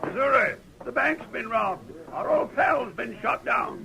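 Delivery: urgent, rising cry of bad news; alarmed news. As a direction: blurt out the shocking news. Sleepy brings news of robbery.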